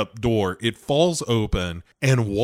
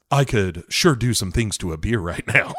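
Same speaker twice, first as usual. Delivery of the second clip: a hammed-up Shatner line, pushed out with swagger on "sure"; "sure" leaned on hard and rising, like a cocky cowboy asking for a beer; mock macho movie-star line; quoting Shatner; 3 semitones lower than usual. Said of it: "He says".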